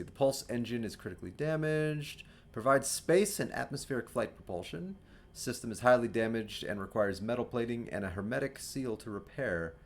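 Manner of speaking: light robotic readout. Acted. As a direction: read it like a ship computer. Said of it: "I should probably do a robot voice".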